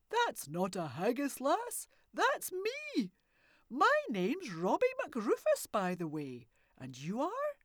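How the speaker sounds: put-on loud, booming old man's voice; a wild old woodsman challenging strangers; gruff old hermit. Old man questioning the girl and granny in his woods, loud and gruff.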